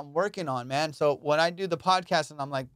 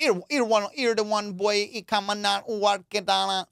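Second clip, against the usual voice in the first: higher, fast Jamaican patter; fast Jamaican accent; 6 semitones higher than usual. Shown as a demonstration. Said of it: "the Jamaican accent. They talk so much faster".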